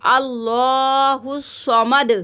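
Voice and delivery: समद with a thick, heavy स (sad), not सा. Shown as a demonstration. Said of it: "इसको मोटा पढ़ेंगे". (समद मोटे साद से)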